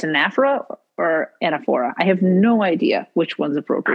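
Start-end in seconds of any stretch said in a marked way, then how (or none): 0.0-1.9 anaphora said two ways, stress on second then first syllable; variant pronunciations. Shown as a demonstration. Unsure which anaphora is right, weighing stresses. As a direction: try anaphora with shifted stress. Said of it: "I don't know if it's".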